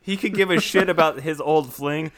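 loud, high, mock-outraged insistence; worked-up, hammed-up lecture to a co-host; exasperated rant. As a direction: hammer it home like an exasperated fan.

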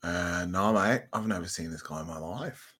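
lightly voiced parakeet saying mate; a hint of a cheeky parakeet; parakeet chatter. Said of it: "Said the parakeet".

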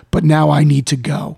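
abrupt blank seriousness, like a light switch; blank-faced. Retold or imitated. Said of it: "total blank face".

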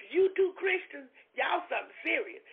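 wife teasing the two friends, shouting out; laughing exclamation. Retold or imitated.

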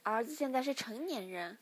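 a hint of a mother gently chiding; smiling mother. A narrator's reading. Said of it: "母亲笑了笑".

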